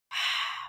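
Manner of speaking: weary, quiet exhale; low breath out; soft sigh. A narrator's reading. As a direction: sigh softly, lost in thought. Man sighs while missing his daughter.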